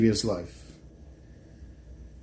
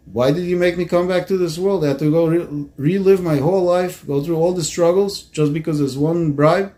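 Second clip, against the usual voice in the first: retold aggrieved protest, slightly higher; upset complaint; 4 semitones higher than usual. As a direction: voice an upset man demanding to know why. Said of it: "the guy was upset at him".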